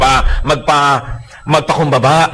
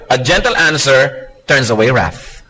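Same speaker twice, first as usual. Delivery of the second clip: slow scripture reading; 2 semitones lower, slower than usual. Acted. Scripture quote.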